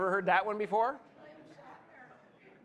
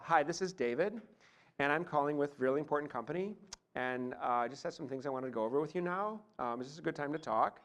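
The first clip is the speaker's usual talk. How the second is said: soft, tentative caller with upward inflection on each phrase; imitating an apologetic business call in uptalk; hesitant questioning phone call; 2 semitones lower, 5 dB quieter than usual. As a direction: make every statement sound like an unsure question. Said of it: "maybe make this phone call".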